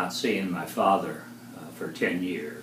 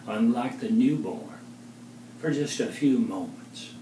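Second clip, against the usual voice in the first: measured poetry reading, pausing between phrases; poem recital. Acted. Poet reads poem a woman inspired, measured recital. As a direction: recite it in spaced lines, endings dropping away.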